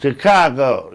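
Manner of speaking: lightly demonstrated Chicago accent; a hint of Chicago accent. Shown as a demonstration. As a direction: say Chicago as a local would. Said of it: "How do you do a Chicago accent?".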